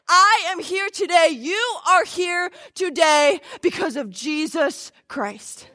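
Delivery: slow, emphatic sermon delivery; punched key words, measured preacher cadence; preaching. Real, not acted. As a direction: proclaim it in weighty phrases with pauses. Preaches the gospel.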